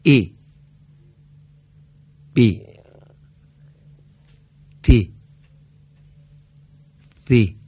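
each letter sounded crisply with a long i, ای بی تی; Arabic letters with kasra. Shown as a demonstration. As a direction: recite the alphabet slowly, one letter at a time.

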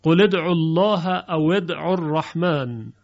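قل ادعوا الله as qule, او ادعوا الرحمن as awe; kasra on qul. Shown as a demonstration. Teacher demonstrates the kasra linking to the class. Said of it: "لام رو به کسره میاریم".

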